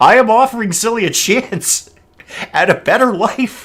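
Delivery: laughing while speaking. Speaker trying to make an offer seriously, unable to keep a straight face. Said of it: "I can't say this with a straight face".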